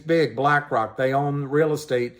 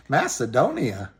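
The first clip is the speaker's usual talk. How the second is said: ordinary delivery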